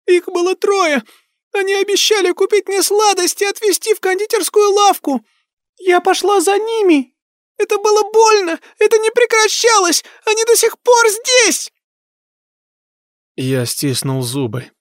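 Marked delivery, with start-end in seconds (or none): 0.1-11.7 put-on very high, loud hysterical girl; screaming ghost child. A narrator's reading. Ghost girl screaming how she died. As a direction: hurl it out in terror and rage.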